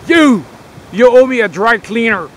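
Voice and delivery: high, loud mock accusation; retold accusing shout. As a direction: call him out loudly, half joking. Soldier confronting him, retold.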